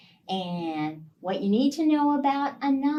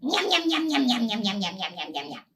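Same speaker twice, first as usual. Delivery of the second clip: yum yum sounds; faster than usual. Shown as a demonstration. Storyteller leads the kids in yum yum sounds, munching. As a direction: chant yum yum like a spider gobbling. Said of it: "help me make some yum, yum, yum sounds".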